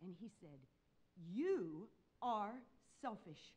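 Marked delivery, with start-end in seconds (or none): 1.3-3.5 measured stern verdict, word by word; retold sternness. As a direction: pause between words, quietly stern. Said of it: "He was stern".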